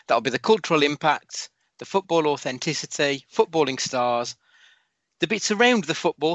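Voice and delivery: podcast host reading a prepared intro; scripted read. Acted. Host reads scripted segment intro.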